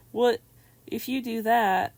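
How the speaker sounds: sudden loud, high outraged what; outraged Zeus. Acted. Zeus to Odysseus over the child, loud indignant outburst. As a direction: blurt it out like an indignant god. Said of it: "Zeus is like".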